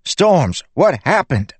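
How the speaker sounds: high, loud, shocked; alarmed question. A narrator's reading. Pete asking the wounded Bissig, high and loud. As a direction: demand it in alarm.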